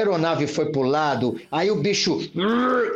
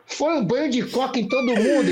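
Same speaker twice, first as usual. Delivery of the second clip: laughing; 5 semitones higher than usual. Real, not acted. Laughing while telling.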